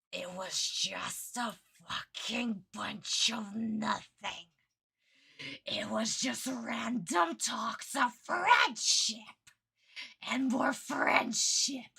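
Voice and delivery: slow, strained exasperation; anger held down. Real, not acted. Fan ranting about friendship talk, slow suppressed anger. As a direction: seethe word by word, rising as it goes. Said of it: "trying to keep my voice down".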